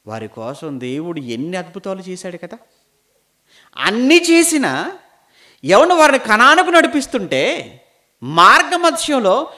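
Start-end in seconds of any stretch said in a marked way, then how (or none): 3.8-9.5 loud, raised preacher's voice; full-force preaching. Acted. Preacher challenging listeners about Israel's journey, loud and high. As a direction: press the question on the congregation loudly.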